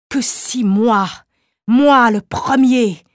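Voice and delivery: slow, rising inspired declaration; mounting fervour. Acted. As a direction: build slowly toward the big idea. Inventor builds to grand vision.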